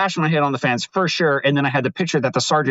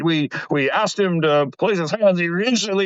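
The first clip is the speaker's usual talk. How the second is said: mocking cop testimony; 4 semitones higher than usual. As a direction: parody the cop reading his report. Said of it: "His, his version was some bullshit".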